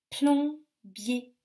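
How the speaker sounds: PLOMBIER loud, as plom, then bier; split into syllables. Shown as a demonstration. Teacher helps children listen, PLOMBIER split in two syllables. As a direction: break PLOMBIER into two clear beats. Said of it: "Dans quelle syllabe".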